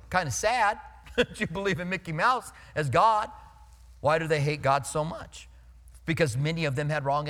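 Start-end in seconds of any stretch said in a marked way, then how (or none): 0.1-3.3 amused, pitying aside with a laugh; a light laugh through the words; mild pitying laugh. Retold or imitated. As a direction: chuckle at it gently. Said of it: "I'm just gonna go".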